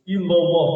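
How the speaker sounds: Ilallah loud, tongue tapping the palate on the l; tongue tap ilallah. Shown as a demonstration. Teacher showing the tongue tap to student, loud Ilallah. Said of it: "lidahnya tepuk ke langit-langit".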